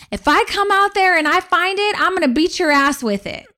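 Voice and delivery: high-pitched mock mother threatening; a hint of an angry mom; mom's threat. Mother's threat voiced in story.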